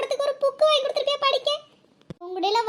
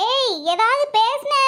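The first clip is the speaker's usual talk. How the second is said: slow menacing warning; slower than usual. Acted. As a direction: drag the threat out slowly. Husband threatens wife in quarrel.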